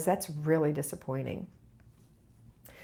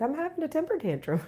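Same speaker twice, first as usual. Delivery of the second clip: tantrum; 10 semitones higher than usual. Retold or imitated. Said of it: "he starts having a temper tantrum".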